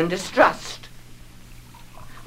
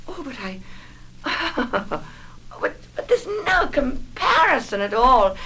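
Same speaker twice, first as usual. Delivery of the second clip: a broken half laugh, then tearful; breaking laugh into tears; 5 semitones higher than usual. Acted. Mother denying it, nervous laugh turning tearful. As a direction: caught between a laugh and crying.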